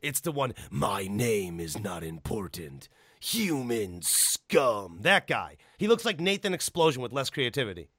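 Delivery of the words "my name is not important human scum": much lower, slow and menacing; gruff antihero quote. Retold or imitated. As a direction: growl it out like a grim killer. Quoting the game's antihero.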